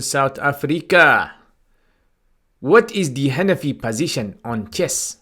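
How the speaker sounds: slow, attempted South African accent. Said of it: "Did I say it in the right, uh, South African accent?".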